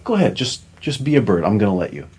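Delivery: playful mock-benevolent murmur; mock magnanimous self-talk. Shown as a demonstration. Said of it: "and you say".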